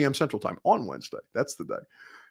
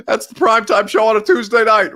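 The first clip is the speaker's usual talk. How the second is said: mock show announcement; 7 semitones higher, 4 dB louder than usual. Mock announcing the new show idea.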